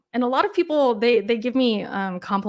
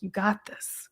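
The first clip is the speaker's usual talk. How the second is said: calm affirmation. Shown as a demonstration. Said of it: "a affirmation".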